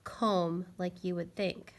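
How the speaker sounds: "comb" with a long o, said slowly. Shown as a demonstration.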